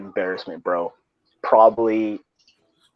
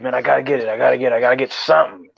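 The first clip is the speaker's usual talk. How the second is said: mock desperate friend; 3 semitones higher, faster than usual. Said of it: "You were just like".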